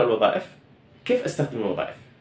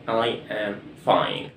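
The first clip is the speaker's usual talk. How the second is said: I am fine said very slowly and softer; drawn-out teacher model, each word apart; slow, soft classroom demonstration; slow model sentence; 5 semitones lower, 4 dB quieter, much slower than usual. Shown as a demonstration. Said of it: "نرجع مرة تانية لكلمة I am fine".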